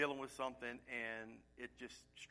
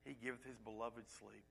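softer and lower, savouring each word; soft comforting repeat; 5 semitones lower, 11 dB quieter than usual. Shown as a demonstration. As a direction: let the promise settle gently. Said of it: "doesn't that sound so comforting?".

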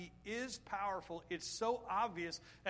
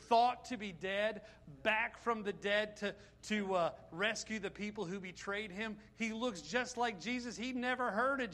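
louder, building fervent preaching; preaching climax; 4 dB louder than usual. Real, not acted. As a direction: drive it home to the congregation, louder.

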